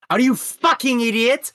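put-on high-pitched, indignant Russian-accented outburst; thick Russian accent. Russian grandpa berating the deli worker, angry Russian accent. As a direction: imitate an irate Russian grandpa. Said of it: "he's got a thick Russian accent".

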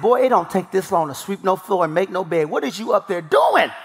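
retold exasperated dad, building to a shout on the last question; mock parental rant that climbs to a yell; venting frustration. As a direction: scold the boy, bursting out at the end. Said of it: "I was venting my frustrations".

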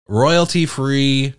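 slow, low, sultry purr. Acted. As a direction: purr it like a late-night DJ. Sultry announcing smooth jazz.

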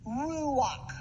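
ruach said slowly with a throaty final kh; Hebrew ruach. Shown as a demonstration. Preacher demonstrating the Hebrew word ruach, slowly. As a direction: sound out ruach, ending in a breathy kh. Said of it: "the Hebrew word for the Spirit is".

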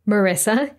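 Marissa with a plain s, no t; misread name. Retold or imitated. US readers getting her name wrong, misread as Marissa. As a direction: misread it as Marissa, muh-RISS-uh. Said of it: "depending on how they read their name".

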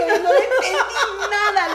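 high, loud laughing retort; laughing complaint. Retold or imitated. Guest retelling a phone call she couldn't follow, laughing. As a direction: laugh it out in disbelief. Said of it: "y le digo yo".

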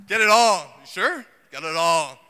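loud urgent call to grab it all; mild mock panic shout; panicked shopping call. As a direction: shout to take everything off the shelf. Store oatmeal panic.

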